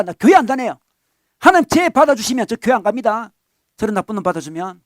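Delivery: loud, indignant complaint; the offended elder son refusing to go; elder son's loud resentful outburst; sulky protest. Acted. Angry elder son voiced.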